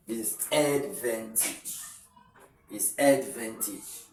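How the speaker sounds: slow, deliberate "advantage", ending in "tij"; teacher slowly modelling each sound of "advantage"; careful pronunciation demo. Shown as a demonstration. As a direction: draw out "advantage" as "ad-ven-tij". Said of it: "if you have to transcribe it".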